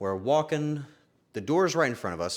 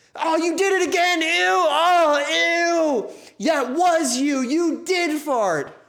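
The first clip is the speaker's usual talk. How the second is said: very high, very slow, loud drawn-out shriek; 7 dB louder than usual. Retelling how a passenger in the back reacted: imitating someone screaming. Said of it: "genuinely screaming".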